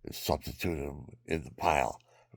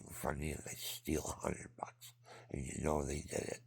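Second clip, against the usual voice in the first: whisper; 10 dB quieter than usual. Real, not acted. Whispered aside about theft.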